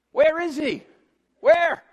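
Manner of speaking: giant demanding. Acted. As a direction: demand loudly to see the challenger. Goliath searches for his challenger.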